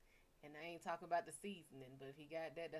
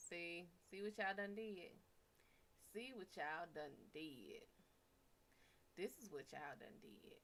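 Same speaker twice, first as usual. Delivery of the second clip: mock scolding; 3 semitones lower, 6 dB quieter than usual. Scolding audience, fading lower.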